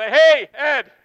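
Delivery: the seller calling after Ed, loud and bright; retold yell. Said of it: "the guy yelled".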